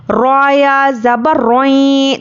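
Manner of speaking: रोई said with the voice rising on the vowel; zabar vowel rising. Shown as a demonstration. Teacher shows students zabar sound: रोई rising upward. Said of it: "ये आवाज़ ऊपर को जाती है".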